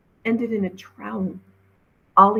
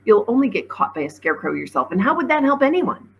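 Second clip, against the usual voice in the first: demanding; 4 semitones higher, 5 dB louder, faster than usual. Acted. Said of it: "Ollie demanded".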